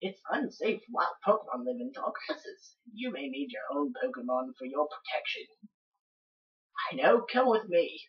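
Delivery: acted professor with a loose Australian accent; somewhat Australian accent. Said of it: "giving him somewhat of an Australian accent".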